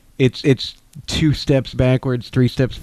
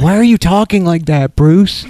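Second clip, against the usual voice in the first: exaggerated cartoon intonation; 4 semitones higher than usual. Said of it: "Be more what it's like".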